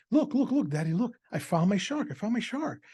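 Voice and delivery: put-on high, eager little-boy voice; mock excited child. Son runs out to his dad, excited and high. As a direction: squeal it like a kid with his lost toy.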